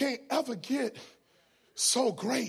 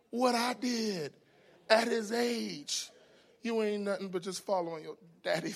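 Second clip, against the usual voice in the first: tender reflection; 3 dB quieter than usual. Real, not acted. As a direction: ease down and let each phrase land gently. Tender turn toward his child.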